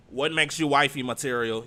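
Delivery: pointed loud repeat. Retold or imitated. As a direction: lean on it to make the point. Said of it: "She said".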